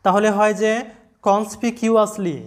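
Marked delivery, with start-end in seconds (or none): 1.3-2.4 কনসপিকিউয়াসলি said slowly, each syllable spaced; slow model word. Shown as a demonstration. Teacher introducing a new word to students, slow. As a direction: draw out কনসপিকিউয়াসলি for learners. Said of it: "উচ্চারণটা আসতেছে কি?".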